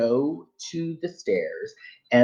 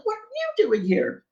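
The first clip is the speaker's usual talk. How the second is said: even higher, delighted echo of the question; squealing echo of the greeting; excited echo. Retold or imitated. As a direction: throw the question straight back, thrilled. The other woman echoes back.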